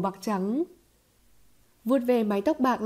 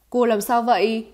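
louder, astonished asking; startled question; 6 dB louder than usual. Acted. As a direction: ask in sudden concern, voice raised. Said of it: "kinh ngạc hỏi". (hỏi đầy kinh ngạc)

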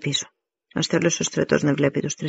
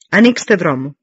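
louder, brisk military order; commanding call; 6 dB louder than usual. Acted. Commander orders soldiers to clear a path, commanding. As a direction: order the ranks apart in a raised voice.

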